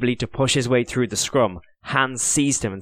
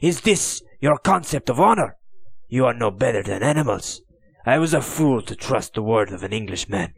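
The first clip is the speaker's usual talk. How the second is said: outraged accusation; 3 semitones higher than usual. Acted. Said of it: "he gasped".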